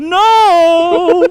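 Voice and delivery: high screaming cry; falling scream. Pretend. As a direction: scream as you fall. Usher falling off a roof.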